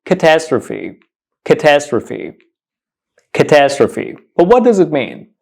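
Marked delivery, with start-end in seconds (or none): 0.0-4.2 "catastrophe" said as a careful model; teacherly "catastrophe", ending in a clear "fee"; pronunciation demo. Shown as a demonstration. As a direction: stress the second syllable of "catastrophe". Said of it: "The correct pronunciation of this word".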